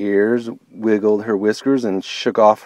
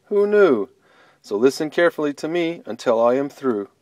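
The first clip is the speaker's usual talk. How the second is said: lively rhyming storyteller voice; story narration; 3 semitones higher than usual. A narrator's reading. Storyteller opening a tale to children, lively rhyme. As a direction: open the tale with playful sing-song.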